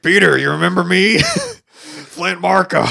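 a hammed-up imitation calling out to Peter; Sandman impression. Podcaster imitating Sandman greeting Peter, hammed-up high voice. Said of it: "He's like".

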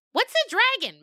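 high, loud little goat voice; squeaky goat kid. Acted. Little goat interrupting the storyteller, high and loud. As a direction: pipe up like a curious kid goat.

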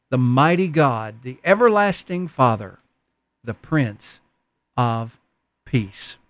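solemn scripture reading voice. Acted. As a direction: read the verse with reverence. Reads scripture aloud.

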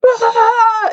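high mock scream of frightened boys; retold scream. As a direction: imitate the boys shrieking in fright. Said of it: "they were like".

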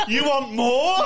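high mocking question; laughing. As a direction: squeal it through laughter. Mock heckler reply, laughing.

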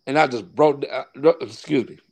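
real emotion, softening and breaking off; getting emotional. Real, not acted. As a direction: stop to compose yourself. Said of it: "tried to get emotional".

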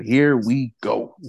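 slow, drawn-out villain line; a lightly voiced Joker tease; Heath Ledger. Shown as a demonstration. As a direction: drag it out like a movie villain. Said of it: "I need that soundbite. Heath Ledger".

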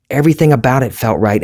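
Everything rising up, delighted; thrilled, reliving it. Retold or imitated. Reliving the perfect hit.

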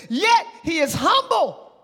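high-energy drawn-out preaching; fervent preaching. Real, not acted. Preacher proclaiming the coming king to the church, fervent preaching. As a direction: preach it slowly and emphatically.

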